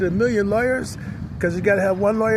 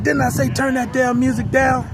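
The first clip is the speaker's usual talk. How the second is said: "Didn't" pushed higher and louder in a mock yell; the bodyguard repeating himself, half-raised; retold yell; 5 semitones higher, 3 dB louder than usual. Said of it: "was yelling at me".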